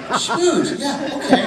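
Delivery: imitated translator, very high and loud; quoted translator. Translator takes in an unknown word, mimicked high and loud. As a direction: mimic her pitched far above your own voice. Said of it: "And Bella's like".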